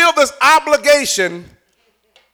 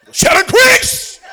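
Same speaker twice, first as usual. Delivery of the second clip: "Shall increase" said slowly and higher, falling at the end; slowed down; 11 semitones higher, slower than usual. Shown as a demonstration. Preacher repeating the phrase slowly for the crowd. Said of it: "and slow down".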